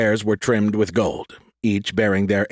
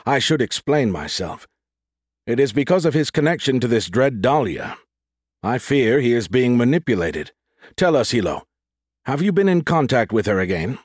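lightly voiced formal inquisitor, higher-pitched on the question; formal official; 3 semitones higher than usual. Ramus explains his suspicion and questions Hilo, formal official. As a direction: explain with measured authority, then press for an answer.

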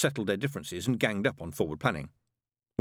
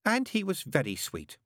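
wistful; 9 semitones higher than usual. Acted. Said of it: "said Mary Hodges wistfully".

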